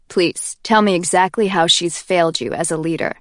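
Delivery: lightly voiced, calm menacing taunt; a hint of cool Warner. Warner mocks Kenji with a gun to his head, coolly menacing.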